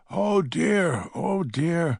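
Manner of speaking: high, fluttering panic; flustered old lady. A narrator's reading. Old lady panics over Jacob, high flustered cry. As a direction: flutter in confused alarm.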